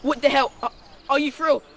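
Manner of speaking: loud, alarmed panic; panicked. Acted. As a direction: blurt it out, scared. Bikes stolen, panic.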